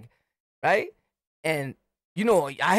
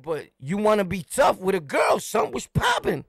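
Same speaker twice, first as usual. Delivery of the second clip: confrontational taunt. Retold or imitated. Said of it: "I'm like".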